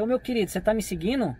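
pergunta tranquila, um pouco mais suave; calmo e gentil. Shown as a demonstration. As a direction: pergunte com calma, como quem chama de meu querido. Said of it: "eu falei desse jeito, ó, pra vocês verem". (tom calmo e amigável)

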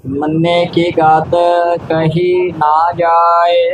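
steady monotone chant with drawn-out endings; scripture recitation. Acted. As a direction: recite it evenly on one note.

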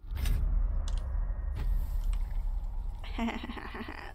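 long breathy cackle; pleased, airy giggling that keeps going; gloating laugh. Real, not acted. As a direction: laugh in a drawn-out staccato run. Gloating after a kill.

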